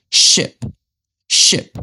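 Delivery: "ship" with a brief, lax i; short i. Shown as a demonstration. Teacher giving learners an example, short i in "ship". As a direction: keep the vowel in "ship" short as in it. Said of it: "they say it very short".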